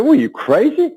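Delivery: high, startled disbelief; shocked after being punched; surprised. Retold or imitated. Hit by the trainer, asking if she's crazy: high startled disbelief.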